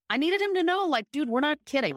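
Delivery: emphatic. Real, not acted. Emphatic peak of story.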